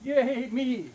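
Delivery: high mock cheer; playful cheer. Jokey self-praise after compliment.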